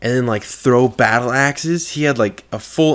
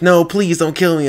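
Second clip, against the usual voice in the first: higher-pitched imitation of begging; mock pleading; 7 semitones higher, 3 dB louder than usual. Victim begging while crawling away.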